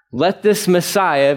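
slow, drawn-out mock title; sarcastic. Preacher quoting priests mocking Jesus, sarcastic. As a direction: lay on the sarcasm slowly. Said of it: "please note that this is sarcasm".

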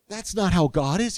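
a preacher correcting his flock with force; emphatic. Real, not acted. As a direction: declare it firmly against the wrong idea.

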